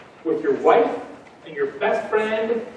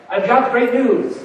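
put-on slow, slightly higher Transylvanian vampire accent; a brief mock Dracula, drawn out; 4 semitones higher, 3 dB louder than usual. Guy announcing great news to the team in a mock Dracula accent. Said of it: "Like a, like a Dracula impression".

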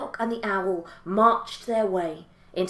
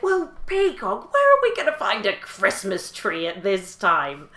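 collie dog voice. Acted. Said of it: "And the collie said".

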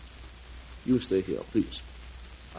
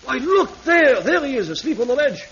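surprised; 10 semitones higher, 4 dB louder than usual. Acted. Guide spots the boy.

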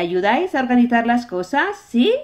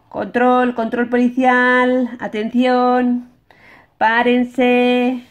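calling out like a policeman; 3 semitones higher, 5 dB louder, slower than usual. Pretend.

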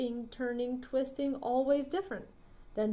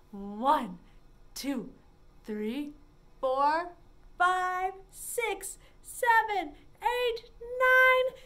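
each number higher and louder; rising count; 5 semitones higher, 4 dB louder, much slower than usual. Shown as a demonstration. Librarian counts up, climbing in pitch, for kids. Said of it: "get taller and taller as we count".

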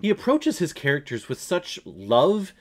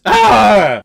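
loud, high imitated movie scream; mock blood-curdling yell; 7 semitones higher, 12 dB louder than usual. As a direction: let out a sudden loud strangled-victim "Ah!". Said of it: "then you hear this scream. You hear this".

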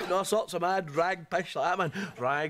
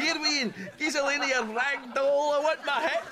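mocking junkie; 4 semitones higher than usual. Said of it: "totally like that".

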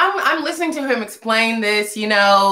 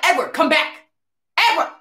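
mildly exasperated, pitched up; retold annoyed call; 5 semitones higher than usual. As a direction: call after him with mock annoyance. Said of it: "So I'm like, mad".

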